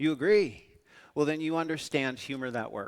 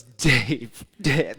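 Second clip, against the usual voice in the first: calling out loud; 9 dB louder than usual. Retold or imitated. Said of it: "he goes".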